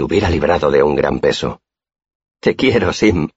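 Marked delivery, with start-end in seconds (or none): 2.4-3.3 higher-pitched, mildly heartfelt declaration. A narrator's reading. Narrator tells Sim of affection after laughing, mildly heartfelt. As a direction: say it sincerely, pitch lifted. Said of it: "dije de todo corazón".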